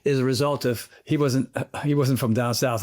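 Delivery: lightly put-on Southern accent, lilting up at first. Real, not acted. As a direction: slip into a hint of a Southern accent. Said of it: "I'm doing my southern accent".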